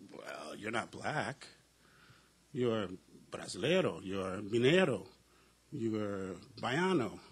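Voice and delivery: slow, lightly voiced Brazilian hosts; drawn-out mock correction, naming each category; quoting Brazilians. Brazilian hosts correcting the visiting pastor, slow and lightly voiced.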